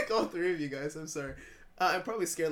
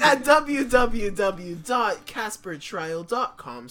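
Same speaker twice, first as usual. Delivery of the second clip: slow shout; 5 dB louder, slower than usual. Pretend. Ad read shouted slowly.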